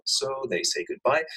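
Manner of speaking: usual speaking voice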